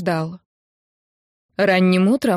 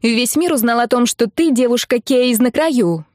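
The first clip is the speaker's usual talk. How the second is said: выше и громче, взахлёб; крикни, задрав голос вверх; кричит; 4 semitones higher, 3 dB louder than usual. Acted. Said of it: "ещё громче крикнула". (подруга кричит новость в трубку, высоко и громко)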